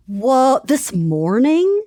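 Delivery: slow disbelieving question; incredulous. Real, not acted. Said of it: "Well, okay".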